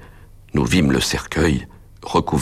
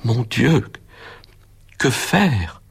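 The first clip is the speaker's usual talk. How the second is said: high, frightened inner cry; a pitched-up plea to God; frightened thought; 8 semitones higher, much slower than usual. A narrator's reading. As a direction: panic rising as he clutches his head. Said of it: "pensais-je avec effroi".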